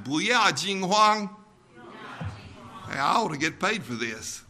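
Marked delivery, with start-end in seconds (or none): 0.0-1.3 "Bu yao jing huang" in Mandarin once more; Chinese phrase. Shown as a demonstration. Preacher repeating the Mandarin phrase for the congregation, careful. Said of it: "one more time".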